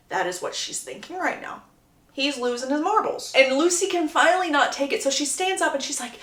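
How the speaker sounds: normal talking voice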